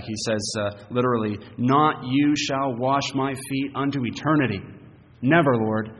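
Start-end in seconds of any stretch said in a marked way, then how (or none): 1.6-5.9 firm protest, "Never" hit loud; emphatic refusal. Acted. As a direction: refuse with force, landing hard on "Never". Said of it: "it's so emphatic".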